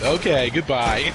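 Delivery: slow mock robot sign-off; drawn-out retold goodbye; automated robot lady. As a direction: lightly imitate a dismissive phone system. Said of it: "it's all like".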